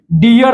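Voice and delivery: डियर opening on retroflex ड; hard D sound. Shown as a demonstration. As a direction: demonstrate डियर with a ड onset. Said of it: "तो हमारा ड आ रहा है".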